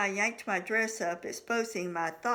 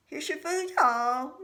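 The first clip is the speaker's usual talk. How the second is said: bright lilting waitress greeting, pitch swooping high; sing-song; 7 semitones higher, 7 dB louder than usual. A narrator's reading. Waitress announcing the food to diners, in a sing-song. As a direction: sing it out to the table, up and down. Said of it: "Miss Perky said in a sing-song voice".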